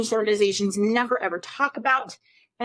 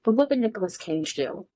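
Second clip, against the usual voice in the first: put-on lower, gentler, calmer "hey girl"; modulated tone; 3 semitones lower than usual. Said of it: "a little bit more of a modulated tone of voice".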